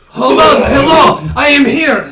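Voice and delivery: loud proud hero entrance; heroic announcing. Acted. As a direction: announce yourself to the camp. Hero arrives announcing himself.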